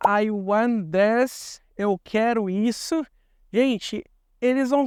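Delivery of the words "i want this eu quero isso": blunt demand. Retold or imitated. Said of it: "e você fala".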